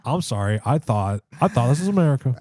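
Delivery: huffy South Park line, lightly done; mock indignant quote. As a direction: fake offended, rising on America. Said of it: "I had to quote South Park".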